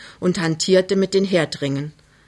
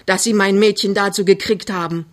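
mildly angry reproach; still cross; 3 semitones higher than usual. Acted. Mother reproaches the suitor, still cross. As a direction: reproach him, not yet appeased. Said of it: "sagt sie noch böse".

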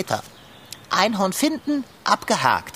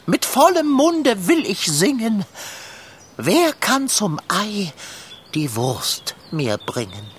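solemn, pompous recitation with long pauses; poem recital. Acted. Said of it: "Sag dein bestes, anrührendstes Gedicht auf". (feierlich und pathetisch vorgetragen)

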